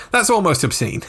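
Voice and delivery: high-pitched, breaking into a laugh; amused disbelief. Real, not acted. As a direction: let the reaction jump up high into real laughter. Laughing at co-host's horrible story.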